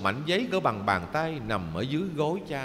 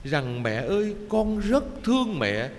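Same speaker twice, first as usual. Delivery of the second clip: choked sobbing lament. Acted. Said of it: "nó nức nở nghẹn ngào".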